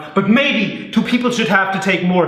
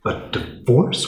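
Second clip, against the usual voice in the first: stunned whisper; 2 semitones lower, slower than usual. Acted.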